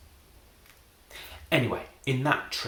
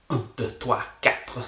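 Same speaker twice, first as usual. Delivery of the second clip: put-on French accent. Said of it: "that's better in English".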